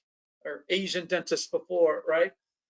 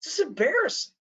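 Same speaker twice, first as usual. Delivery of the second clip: raised pitch, exasperated mock retort to his mother; embarrassed son calling out his mother at a party, higher and exasperated; retort to mom; 4 semitones higher than usual. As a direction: play it back as a higher, fed-up scolding of mom. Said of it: "I said".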